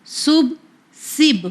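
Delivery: put-on teacher drilling سب for children; syllable drilled alone. Shown as a demonstration. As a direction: drill سب twice for young learners. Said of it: "تو اس طرح بھی ہم پڑھ سکتے ہیں".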